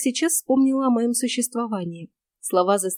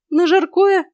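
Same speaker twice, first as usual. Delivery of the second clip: much higher, louder frightened squeak; 9 semitones higher, 7 dB louder, slower than usual. Acted. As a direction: squeak it like a scared mouse. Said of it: "пискнула я". (испуганный писк)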